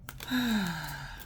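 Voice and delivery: long soft sigh sinking down; real weary sigh at the cards; exasperated sigh. Real, not acted. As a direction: sigh it out, fed up. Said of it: "my sigh says everything".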